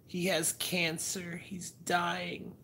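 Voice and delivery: high, slow dreamy sleep-talk; imitating wife sleep-talking. Husband imitating his wife talking in her sleep, high and slow. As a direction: sadly mumble it half asleep. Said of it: "she's like".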